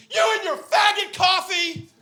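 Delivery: high, slow, loud mocking yell; hammed-up triumphant insult; angry dad. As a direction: imitate the furious father. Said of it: "he goes".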